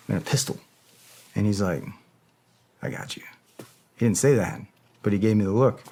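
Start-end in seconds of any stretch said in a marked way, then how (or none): 2.8-3.2 low gruff voice. Retold or imitated. Gas-masked ally voiced.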